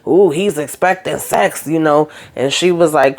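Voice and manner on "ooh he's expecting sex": teasing friend. Retold or imitated. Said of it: "one of the other friends is laughing".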